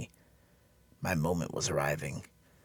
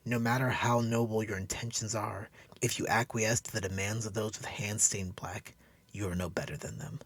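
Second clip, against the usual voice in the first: put-on a bit higher, solemn young woman; lightly voiced woman passing judgement; understated stern woman's voice; Cassandra; 6 semitones higher than usual.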